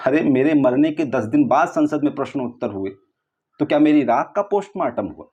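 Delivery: incredulous challenge rising in pitch; indignant objection. Acted. Dead man disputing his post-mortem report before God, indignant. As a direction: throw it back as an outraged rhetorical question.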